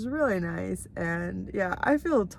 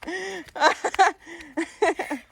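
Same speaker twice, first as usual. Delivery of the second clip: talking to a dog; 7 semitones higher, 4 dB louder, much slower than usual. Real, not acted. Greeting neighbour's dog.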